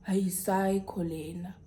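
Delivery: slow, voiceless whisper; whispered aside. Retold or imitated. Girlfriend to jealous boyfriend in the bathroom, whispered aside. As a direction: whisper it slowly under your breath. Muttered aside in retold quarrel.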